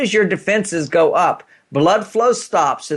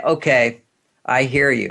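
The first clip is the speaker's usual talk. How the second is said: kind; 3 semitones lower than usual. Shown as a demonstration. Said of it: "It's a very kind statement".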